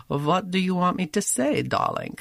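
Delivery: lightly voiced Jewish mother; a hint of a doting Bronx mom; Molly Goldberg voice. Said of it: "a taste of her character's voice".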